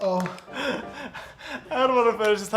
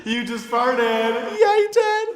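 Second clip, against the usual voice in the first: mock gasp; 2 semitones higher, slower than usual. Real, not acted. Mock shock at fart.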